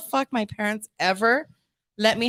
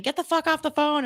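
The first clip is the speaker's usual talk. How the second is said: retold yell; 6 semitones higher than usual. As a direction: imitate a yell at moderate volume. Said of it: "you hear him yelling".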